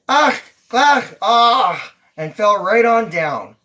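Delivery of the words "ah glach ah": mock groans. A narrator's reading. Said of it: "She said".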